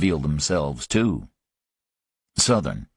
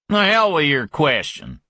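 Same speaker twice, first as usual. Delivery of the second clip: higher, heated brush-off; angry dismissal; 8 semitones higher than usual. Acted. Griffin brushing off Parker, higher and heated. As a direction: wave him off angrily.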